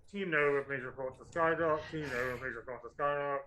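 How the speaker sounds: loud public-address announcer; speaker system announcement. Acted. Game master voicing the academy's speaker system, loud announcement. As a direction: call it out as a tannoy announcement. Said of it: "you probably hear over the speaker system".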